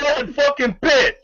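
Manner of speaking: high, slow stunned reveal; an incredulous punchline; mock disbelief. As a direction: land the name with disbelief. Punchline reveal in Tyson story.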